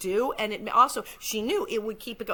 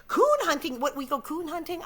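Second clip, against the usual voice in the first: mock disbelief; 7 semitones higher, 3 dB louder than usual. Quotes rebellious dialogue in disbelief.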